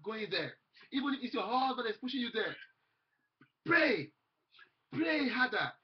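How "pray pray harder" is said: crying out. Acted. Preacher urges prayer.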